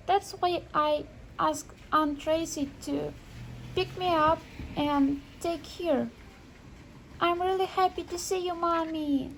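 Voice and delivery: a small son explaining himself to mom; boy telling mother he's happy to see her; child voice. Acted. Son explains coming to restaurant.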